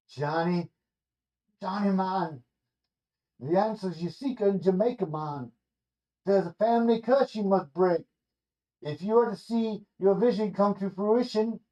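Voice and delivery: solemn Rasta prophet in a vision, light Jamaican lilt. Acted. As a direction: Rasta seer warning Johnny in a light Jamaican accent. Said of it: "Snoop Lion in all of his Rastafarian glory".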